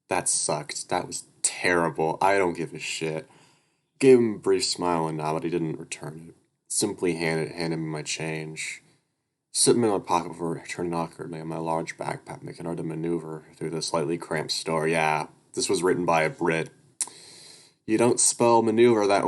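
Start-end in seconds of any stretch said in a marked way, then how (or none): 4.0-14.9 steady read-aloud narrator voice; even storytelling read; story narration. A narrator's reading.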